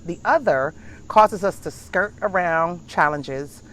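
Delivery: measured, deliberate reading of a text; reading aloud. Acted. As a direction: read it out like a lesson. Reads a motivation text aloud.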